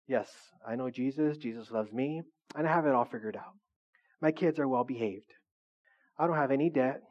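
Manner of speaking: low, subdued imitation of smugness; mock self-satisfied. Churchgoer claiming it is all figured out, mock smug and low. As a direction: play someone calmly listing their blessings, voice dropped.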